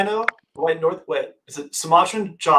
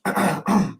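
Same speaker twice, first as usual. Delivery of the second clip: drawn-out goat bleat; short goat impersonation; Pumpkin; 3 dB quieter than usual. Shown as a demonstration. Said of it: "my best pumpkin impersonation".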